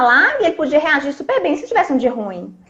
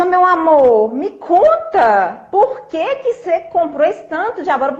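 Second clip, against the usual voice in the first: higher, very slow, gently coaxing; sweet calm asking; 5 semitones higher, slower than usual. Retold or imitated. Wife calmly asking husband why he bought so much, gentle. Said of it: "eu vou agir diferente".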